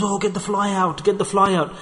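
high-pitched frantic plea; hammed-up fuss to chase the fly out; mock panic. Family panicking over a fly.

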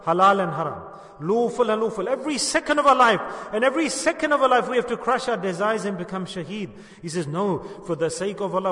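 impassioned sermon voice; fervent preaching. Acted. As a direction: drive the teaching home to the congregation. Preaches with rising fervour.

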